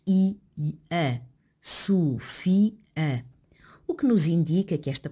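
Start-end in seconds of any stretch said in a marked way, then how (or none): 0.1-2.7 Sofia said slowly, with i and a in separate syllables; slow So-fi-a, a distinct break between fi and a; hiatus shown. Shown as a demonstration. Linguist demonstrates the hiatus in Sofia, slow and clear. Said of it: "a pronúncia efetua-se com um hiato".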